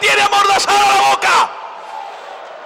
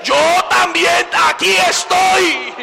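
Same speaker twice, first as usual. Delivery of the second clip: slow, shouted, firm reply, landing hard on estoy; God answers the devil's boast, slow and firm; God's answer; slower than usual. Retold or imitated. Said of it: "Jehová también dice".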